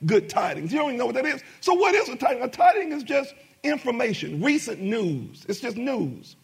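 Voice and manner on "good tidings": put-on quoting old wording. Shown as a demonstration. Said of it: "we don't talk like that".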